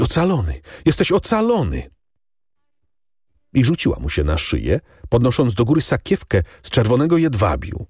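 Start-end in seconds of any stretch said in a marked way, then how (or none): 0.0-1.9 breathless joy. A narrator's reading. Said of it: "zadyszana, niemal nieprzytomna z radości".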